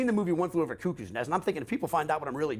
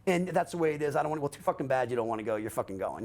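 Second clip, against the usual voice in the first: imitating an upfront father laying down the law; firm dad, no games, mildly acted; no-nonsense dad. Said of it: "he's upfront about it".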